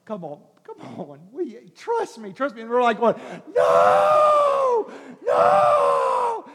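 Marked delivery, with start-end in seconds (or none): 0.0-2.6 quiet, tender coaxing; soft coaxing. Retold or imitated. God gently coaxing the stubborn believer, soft. 3.5-6.5 high, loud panicked shout; screaming refusal. Retold or imitated. Believer screaming refusal at God, panicked.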